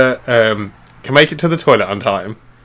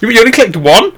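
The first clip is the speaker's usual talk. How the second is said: squeaky put-on voice; 10 semitones higher, 4 dB louder, faster than usual. Mock disbelief, squeaky voice.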